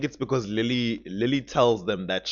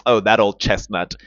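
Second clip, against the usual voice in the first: dismissive retold scoff, louder; disbelieving; 6 dB louder than usual. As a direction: brush off a tired old excuse. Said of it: "That's why he said it like that".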